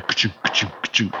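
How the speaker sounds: mouth-made chunking; steady clunks of a restarting gear; imitated gear clunk. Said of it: "it begins to".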